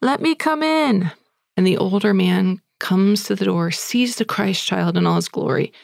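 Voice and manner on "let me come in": put-on little boy pleading. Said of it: "knocks on the door and says".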